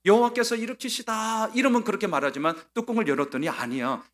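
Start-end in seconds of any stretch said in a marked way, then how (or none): 0.0-1.5 higher, sarcastic reading of 여호와께서 일으키시다; mocking tone. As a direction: say the name's meaning with a sneer. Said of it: "얼마나 비꼬는 겁니까?". (비꼬듯 높게 읽는 말투)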